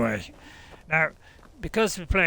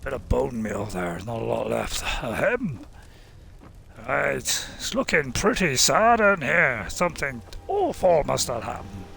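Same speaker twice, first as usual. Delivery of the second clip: put-on Scottish accent. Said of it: "I kinda do a Scottish accent".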